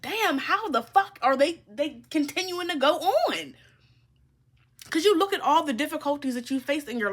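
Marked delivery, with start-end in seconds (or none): 0.0-3.5 a hint of a baffled enemy, higher; mock enemy. Reader voicing watching enemies, mildly baffled and higher. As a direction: sound stunned they still go on. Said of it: "they're just like".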